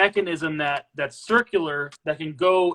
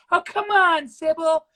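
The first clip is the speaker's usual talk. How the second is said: much higher put-on voice; Ray Ray's really high voice; 9 semitones higher, 4 dB louder than usual. Coaxing Sybil to come outside, imitated high voice. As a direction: mimic a high-pitched, coaxing friend. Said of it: "he had that really high voice".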